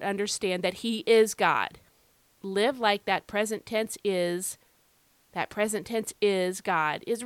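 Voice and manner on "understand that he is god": "is" stressed as the key word; emphasis on IS. Shown as a demonstration. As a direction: lean firmly on "is" before "God". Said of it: "why am I emphasizing this present tense verb".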